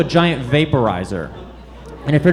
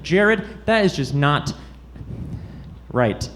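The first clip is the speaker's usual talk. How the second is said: mom voice; 5 dB quieter, slower than usual. Retold or imitated. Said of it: "she was like".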